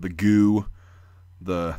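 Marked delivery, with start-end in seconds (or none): 0.0-0.7 "goo" with long oo, cut to one syllable; butchered pronunciation. Retold or imitated. Quoting people on YouTube, butchered "goo" with long oo. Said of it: "people calling it".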